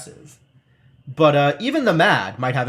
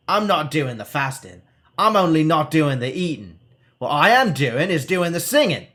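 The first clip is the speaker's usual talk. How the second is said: a touch of bawling, each word pushed out; mild bawling; 3 semitones higher, 3 dB louder than usual. Acted. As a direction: hermit hollering down from his pole. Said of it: "He is bawling every word".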